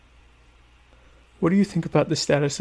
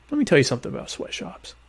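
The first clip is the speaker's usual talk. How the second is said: a hint of a preachy pundit launching in; softer mock pundit, self-mocking intro; mock know-it-all; 4 semitones higher, 5 dB quieter than usual. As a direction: lightly play the opinionated expert about to hold forth. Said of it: "I don't really talk like that".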